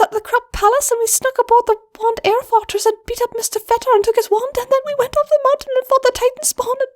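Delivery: high, rushed nervous filly; Wire's voice. Acted. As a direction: rattle it all off at once. Wire recounts her adventures.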